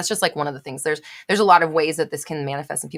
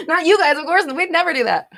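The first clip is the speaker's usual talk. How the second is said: mock sarcastic; 10 semitones higher, 5 dB louder than usual. Teasing the viewers with sarcasm.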